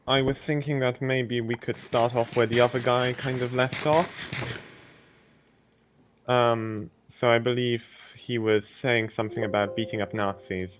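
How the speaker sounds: a light lisp on each S; lisped S sounds, everyday speech. Real, not acted. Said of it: "sorry for the lisp".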